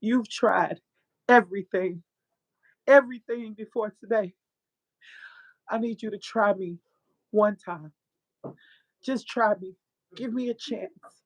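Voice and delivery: halting, heartfelt, long pauses; emotional testimony. Real, not acted. Woman recounts God speaking to her, halting and emotional. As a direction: let each phrase out through real emotion. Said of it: "get emotional".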